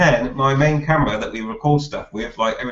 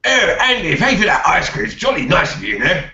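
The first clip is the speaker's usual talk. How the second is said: posh voice; 5 semitones higher than usual. Retold or imitated. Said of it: "it's a bit posh".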